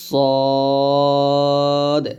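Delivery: সদ heavy and thick; Arabic letter demo. Shown as a demonstration. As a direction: make সদ full and heavy. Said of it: "আমার সাথে আপনারা আবার বলেন". (সদ মোটা করে উচ্চারণ)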